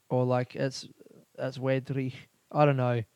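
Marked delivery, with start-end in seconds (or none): 1.4-2.1 tentative amateur Scottish; Scottish accent attempt. Podcaster trying out weather slang in a put-on Scottish accent. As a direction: imitate a Scot using local slang.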